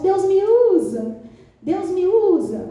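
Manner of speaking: mock-fervent slow petition; earnest plea. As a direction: beg earnestly, stretching the words. Acting out believers' earnest plea.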